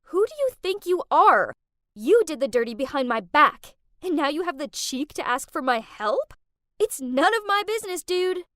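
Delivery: loud, high, furious yelling; yelling at the boyfriend who asks for money. Acted. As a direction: blast him for his cheek. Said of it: "Furious, I yelled".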